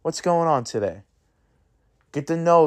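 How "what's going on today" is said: higher, softer and slowed right down, gently asking a mate what's wrong; a worried buddy easing up to an angry stranger, higher and hushed; concerned friendly check-in. Retold or imitated. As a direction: coax him, soft and high, like you really care. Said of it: "And you're like".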